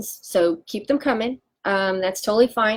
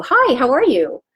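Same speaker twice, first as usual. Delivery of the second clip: bright, louder fake-cheery hello; forced phone greeting; 5 semitones higher, 6 dB louder than usual. Acting out the nervous phone call she hates, in a mock-cheery voice. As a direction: put on the dreaded phone voice.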